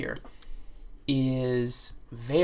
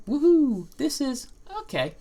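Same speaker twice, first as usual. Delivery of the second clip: mild cheer; 10 semitones higher, 5 dB louder than usual. Real, not acted. Cheer, loud and high.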